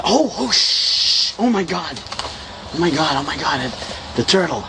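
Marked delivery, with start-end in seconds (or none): 0.0-3.6 excited. Pretend. Spots the fluffy turtle.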